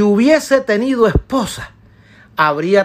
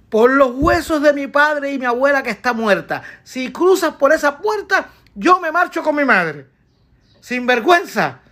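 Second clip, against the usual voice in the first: scolding wife; 3 semitones higher than usual. Acted. Wife scolding Columbus for leaving, shrill and fierce. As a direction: berate him for sneaking off to sea.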